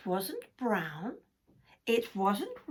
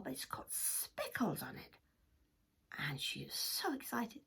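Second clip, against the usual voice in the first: whisper; 8 dB quieter than usual. A narrator's reading. Whispered narration.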